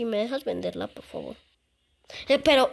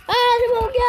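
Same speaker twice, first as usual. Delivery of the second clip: loud outcry; 10 semitones higher, 7 dB louder than usual. Real, not acted. Game glitch outcry.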